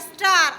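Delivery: A said as an open আ vowel in "স্টার". Shown as a demonstration. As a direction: say "স্টার" with the আ sound. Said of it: "আ হচ্ছে".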